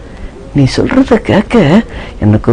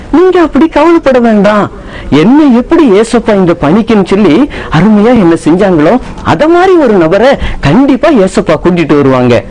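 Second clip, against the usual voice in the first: put-on higher, reassuring young son; son retelling; 5 semitones higher than usual. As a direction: reassure the worried passengers. Son retells people's worry. (பயணிகளை தேற்றும் மகன்)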